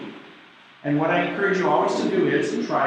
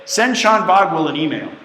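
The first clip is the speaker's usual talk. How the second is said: voice command; 5 dB louder than usual. Shown as a demonstration. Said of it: "here's what Siri is".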